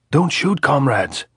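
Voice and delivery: high, loud, urgent plea; shouted plea. A narrator's reading. Andres begging the sentries not to fire, shouting. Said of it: "Andres shouted".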